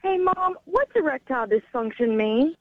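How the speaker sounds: put-on a kid hailing the teacher in class; teacher's question voice. Son calling out to mom in his classroom question voice. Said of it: "my son uses his teacher's question voice".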